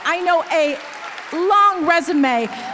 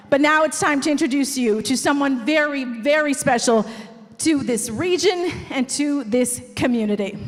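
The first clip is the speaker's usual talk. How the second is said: slightly breathless, fast announcing; out of breath; 2 semitones lower than usual. Real, not acted. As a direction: talk while catching your breath. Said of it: "I'm a little out of breath".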